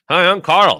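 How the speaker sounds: high puppet voice, lips still; talking through teeth. Shown as a demonstration. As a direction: ventriloquist voice through clenched teeth. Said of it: "I'm talking through my teeth right now".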